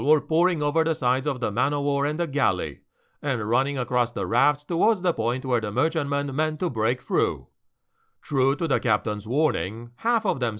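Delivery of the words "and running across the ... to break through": ordinary delivery, nothing marked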